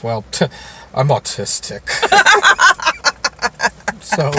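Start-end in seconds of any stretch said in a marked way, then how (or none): 1.9-4.0 a high burst of laughter. Real, not acted. Guest laughs after admitting he's autistic, high laugh.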